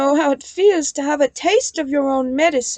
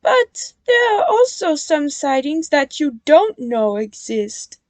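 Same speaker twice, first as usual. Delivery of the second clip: high, louder amused reveal; a touch of chuckling; 7 semitones higher, 6 dB louder than usual. A narrator's reading. Nia revealing hidden sidings, mildly chuckling. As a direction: tease them with a hint of laughter. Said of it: "chuckled Nia".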